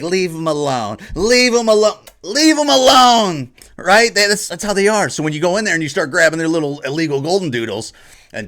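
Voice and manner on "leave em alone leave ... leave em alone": mocking liberal plea. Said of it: "They're always just like".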